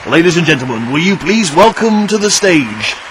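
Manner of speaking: slow, drawn-out announcer voice; suspenseful awards presenter. Retold or imitated. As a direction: stretch out the build to the name. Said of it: "if we're gonna test".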